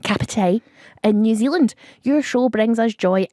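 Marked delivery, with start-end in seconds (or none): 0.0-0.6 Cup of tea in a light Cockney accent, Kapiti; a touch of Cockney on Cup of tea. Shown as a demonstration. Host repeats the town name, light Cockney. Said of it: "but in a Cockney accent".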